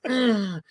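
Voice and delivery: short mock grunt; imitated moan. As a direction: imitate a dancer's noise. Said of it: "she's making all these noises".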